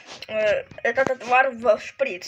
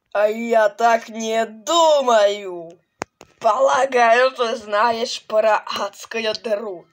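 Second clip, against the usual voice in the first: mad scientist; 4 dB louder, slower than usual. Acted. Villain taunting hero.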